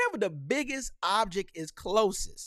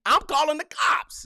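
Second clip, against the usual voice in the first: mock panicked yelp; 10 semitones higher, 7 dB louder than usual.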